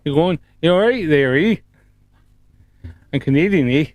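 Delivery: playful put-on Canadian hoser accent. Streamer joking with Canadian chatter, mock hoser accent. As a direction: lay on a light Canadian hoser lilt. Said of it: "I just went a little bit hoser".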